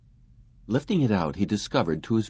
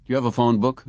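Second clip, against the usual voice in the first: demanding; 4 semitones higher, 4 dB louder, faster than usual. Acted. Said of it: "Quayle demanded".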